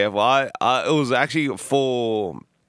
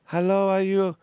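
high put-on Asian accent; high-pitched Asian-accent caller, cut off; 9 semitones higher than usual. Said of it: "it was a very Asian woman".

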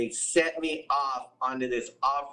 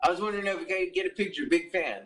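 polite fan; 3 semitones higher than usual. Retold or imitated. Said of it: "they don't even say".

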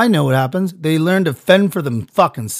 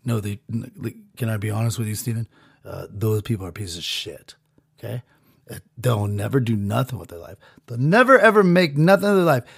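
sassy overlord; 4 semitones lower, 3 dB quieter than usual. Retold or imitated. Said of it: "he said it in even, like, a sassy way".

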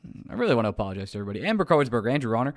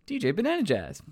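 savoured again; 8 semitones higher than usual. Shown as a demonstration. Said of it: "That's so fun to say".

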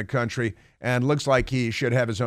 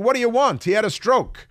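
high, exasperated statement voice; whiny defensive spokesman; mock exasperated spokesman; 10 semitones higher, 3 dB louder than usual. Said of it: "his office put out a statement saying".

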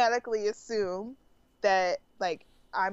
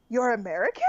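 imitating mildly incredulous listeners; shocked. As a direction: echo their disbelief with a rising question. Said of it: "it's so shocking to them".

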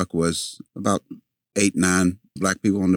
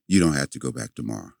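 grandma's verdict; 6 semitones lower, 4 dB quieter, faster than usual. Retold or imitated. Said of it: "she told me".

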